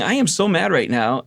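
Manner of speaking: half-laughing mock anger; mad while laughing. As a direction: relive the tantrum, amused at yourself. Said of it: "I'm laughing at it going".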